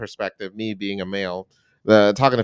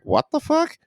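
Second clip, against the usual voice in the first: high incredulous squeal; mock shock from a confused reader; shocked what the. People reading in North Korea, shocked and squeaky. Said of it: "being like".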